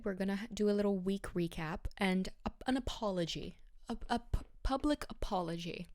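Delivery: slightly breathless talking; out of breath. Real, not acted. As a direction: talk while catching your breath. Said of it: "I don't know why I'm out of breath".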